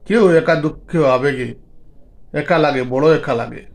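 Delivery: measured poetry reading with pauses between lines; poem recitation. Acted. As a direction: recite it as verse, pausing after each phrase. একখানা কবিতা দিয়ে.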